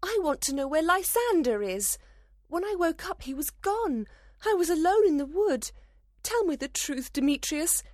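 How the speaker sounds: put-on very high-pitched, indignant young woman; upset heroine confronting a suspect; angry. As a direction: demand answers in a high, heated voice. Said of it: "Hermia replied angrily".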